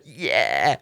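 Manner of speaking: The speaker's Matilda voice. Retold or imitated. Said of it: "that's fully Rebecca".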